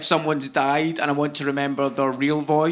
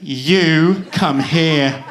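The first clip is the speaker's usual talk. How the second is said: put-on drawn-out, louder English-accented order; 4 dB louder, much slower than usual. Security guard stopping a traveller at the airport, English accent. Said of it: "I'll just make him English".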